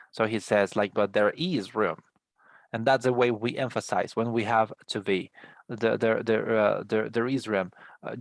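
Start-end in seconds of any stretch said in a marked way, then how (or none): 0.9-2.0 "is" raised in pitch for emphasis; stress on IS. Shown as a demonstration. Teacher shows how to emphasize verb to be, stress on "is". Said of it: "raise our intonation in the verb to be". 7.1-7.7 "is" lifted for emphasis; stress on IS. Shown as a demonstration. Teacher repeats the emphasis example, stress on "is". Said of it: "raise our intonation in the verb to be".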